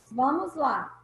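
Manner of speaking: ordinary talk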